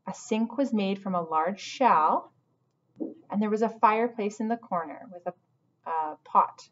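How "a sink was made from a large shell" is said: slow repeat. Shown as a demonstration. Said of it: "I'll repeat some things".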